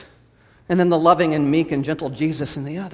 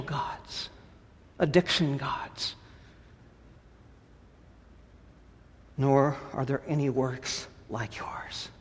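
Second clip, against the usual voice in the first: fading hushed prayer; 3 semitones lower than usual. Acted. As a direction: draw God closer in a hush.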